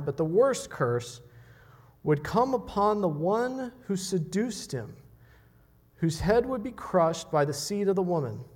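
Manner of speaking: mild imitation of a preacher's rising fervour; imitating R C Sproul. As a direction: press the point with growing fervour. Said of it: "his tone of voice as well".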